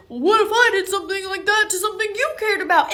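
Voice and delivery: mild mock yell; retold angry yell. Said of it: "he just kept screaming at me".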